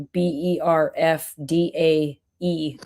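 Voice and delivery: letter by letter with small gaps; spelling it out. Shown as a demonstration. Explaining a birthday post to friends, spelling it out. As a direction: spell it out one letter at a time. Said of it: "I'll spell it out like".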